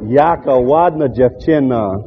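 Yaka wadna jevchina said slowly, foreign-sounding; foreign phrase. Shown as a demonstration. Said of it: "we'd say".

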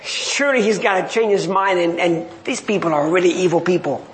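low, grudging inner grumble; Jonah grumbling to himself. Retold or imitated. Preacher voicing sulking Jonah under the tree, low and grudging. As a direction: mutter it low like a sulking prophet.

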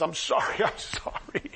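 small, low voice fading away; trembling apology. Retold or imitated. Healed woman caught by Jesus, trembling. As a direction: timidly own up, sinking into a soft, breathy mumble. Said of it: "trembling because she knew she'd gotten caught".

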